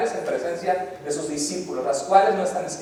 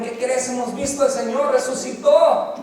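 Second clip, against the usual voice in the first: excited news; 5 semitones higher than usual. Retold or imitated. Disciples tell Thomas the news.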